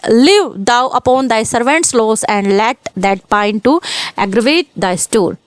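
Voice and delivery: reading the poem line very slowly, word by word; slow recitation. Shown as a demonstration. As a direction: dwell on each word of the verse. Teacher quotes sonnet lines. (कविता की पंक्ति बहुत धीरे पढ़ना)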